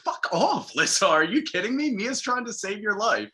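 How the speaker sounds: high-pitched, exasperated telling-off; indignant comeback. Acted. Viewer telling off a character for her friend's sake, indignant. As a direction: snap back in mock indignation.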